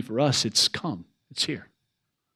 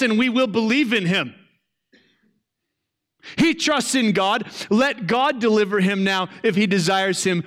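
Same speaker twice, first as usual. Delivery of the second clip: higher, sneering mockery of the priests; sarcastic mocking; 5 semitones higher than usual. Preacher voicing the mocking priests at the cross, sarcastic sneer. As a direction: taunt him, dripping with scorn. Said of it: "Do you hear just the sarcasm and the cynicism".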